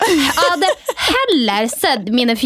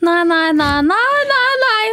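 horrified no; 8 semitones higher than usual. Real, not acted. Listener reacts in horror.

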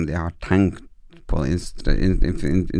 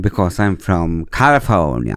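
mock American accent; 3 dB louder, slower than usual. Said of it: "Jeg pleier å si sånn".

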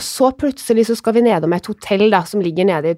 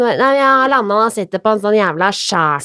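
Molde dialect imitation. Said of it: "jeg kan ikke etterligne det der da".

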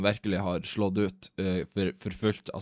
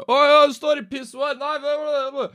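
high, loud, startled yelp of a caught man; startled stranger; 5 dB louder than usual. Retold or imitated. Man caught at the urinal yelps at intruder, high and startled. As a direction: squeal it like you were just walked in on.

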